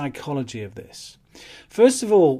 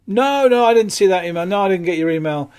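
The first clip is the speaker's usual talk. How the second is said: flustered customer; 2 semitones higher, 6 dB louder than usual. Retold or imitated. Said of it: "the response is then".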